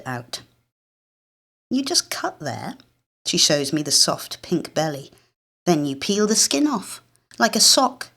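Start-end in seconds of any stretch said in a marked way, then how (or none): 1.7-2.8 put-on high hushed girl voice; a bossy little sister whispering; girl's whisper. Britta voiced by narrator. 5.7-8.1 put-on higher, louder know-it-all girl; bossy girl. Britta voiced by narrator.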